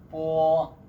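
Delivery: पो said as Chinese b, unaspirated and clearly set apart; Chinese initial demo. Shown as a demonstration. Teacher models the first Chinese initial for learners, crisp unaspirated पो. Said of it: "पहला हमारा initials है".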